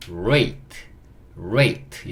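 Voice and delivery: "rate" read as ray closing on a light t; model reading. Shown as a demonstration. Teacher reading rate for learners, model reading. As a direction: show learners "rate" as one word, said separately each time. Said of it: "이렇게 읽을 수 있고".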